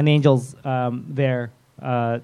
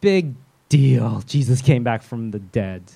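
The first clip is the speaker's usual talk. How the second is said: mock indifference; 4 semitones lower than usual. Voicing indifference to the familiar story.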